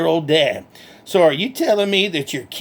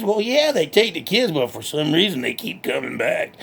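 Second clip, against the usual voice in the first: lightly voiced country hick, cheerful and boastful; redneck Bubba; 3 semitones lower than usual. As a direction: play a proud backwoods redneck bragging. Bubba answers host.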